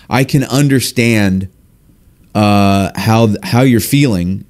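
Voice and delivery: slow, drawn-out understanding; empathetic. Shown as a demonstration. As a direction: say it slowly, showing empathy. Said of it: "you know, empathetically".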